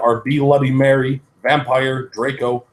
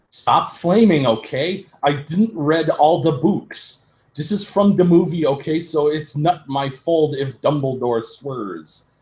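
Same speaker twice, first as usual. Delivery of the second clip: put-on higher, whiny teen author defending herself; mock author voice; 4 semitones higher than usual. Reader mocking the author's note to flamers, whiny. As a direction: lightly sneer it like a touchy fan writer.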